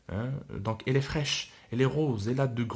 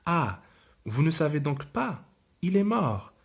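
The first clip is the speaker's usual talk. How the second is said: lightly voiced little girl; 5 semitones higher than usual.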